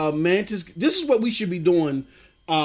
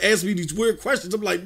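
ordinary talk, nothing marked

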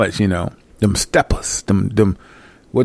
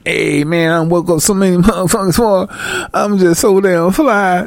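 mock bragging preacher; 8 semitones higher than usual. Mocking a self-important preacher.

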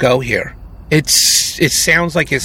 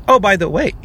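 higher, casual mock afterthought; offhand aside; 5 semitones higher than usual. Co-host mimicking how casually murder was proposed, offhand. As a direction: toss it in as a passing thought. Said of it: "very offhand, like, just like".

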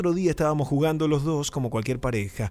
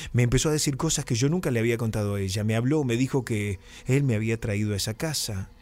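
ordinary talk

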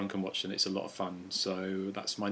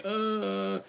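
higher-pitched mock groan; imitated groan; 10 semitones higher than usual. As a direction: groan like a bloodied movie victim.

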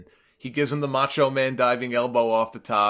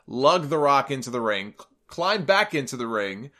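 ordinary delivery

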